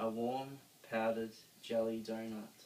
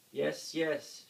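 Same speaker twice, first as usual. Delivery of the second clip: shout; 5 semitones higher, 4 dB louder than usual. A narrator's reading. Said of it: "shouted Grump".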